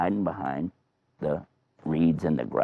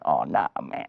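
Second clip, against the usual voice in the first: weary dismay; 5 semitones lower than usual. Acted. King dreading wife's tears.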